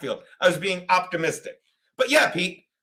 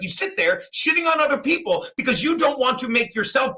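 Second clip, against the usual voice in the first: raised-pitch re-enacted tirade; retold yelling; 4 semitones higher than usual. Host retelling his telling-off, mildly yelling. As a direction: rant as if retelling a row. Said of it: "'cause I'm yelling".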